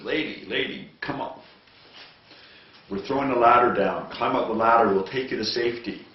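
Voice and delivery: shouting over noise. Acted. News crew shouts down to the lady on the roof, loud. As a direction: yell it over the rotor noise.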